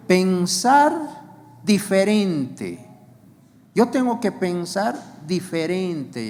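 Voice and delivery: loud, slow pensar diferente; preacher booming the definition, drawn out; emphatic. Acted. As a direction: hammer each word home to the congregation.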